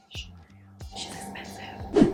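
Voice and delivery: breathy playful whisper; whispered aside. Real, not acted. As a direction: whisper it like a secret. Joking aside about name.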